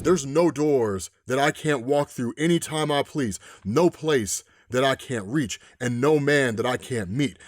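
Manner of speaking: a hint of a calm, menacing villain; menacing man in white. Man in white speaks to president.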